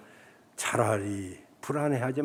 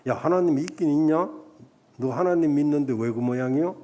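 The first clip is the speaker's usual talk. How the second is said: mild mocking taunt. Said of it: "조롱하고 비웃고".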